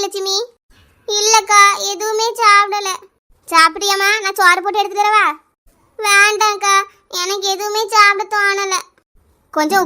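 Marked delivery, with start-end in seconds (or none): 1.1-2.9 slow, drawn-out acted crying; tearful whine. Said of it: "அழாத Lakshmi". 6.0-8.8 slow, sing-song acted crying; tearful refusal. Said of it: "அழாத லட்சுமி".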